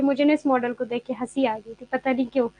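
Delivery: normal talking voice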